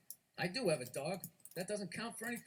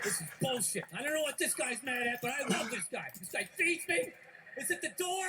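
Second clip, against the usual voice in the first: dog; 3 semitones higher, 3 dB louder than usual. Acted. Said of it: "the dog was over in the corner being like".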